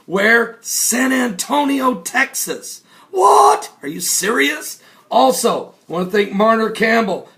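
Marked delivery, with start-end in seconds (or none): 3.1-4.8 sudden high loud yelp; shocked what. Acted. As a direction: jolt up in shock. Shocked reaction to news.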